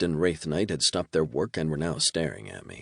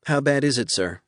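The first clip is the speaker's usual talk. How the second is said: worried Sophia; 8 semitones higher, 3 dB louder than usual. A narrator's reading.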